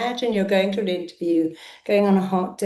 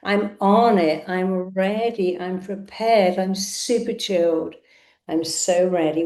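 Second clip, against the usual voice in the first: firm affirmation. Shown as a demonstration. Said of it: "State it, affirm it".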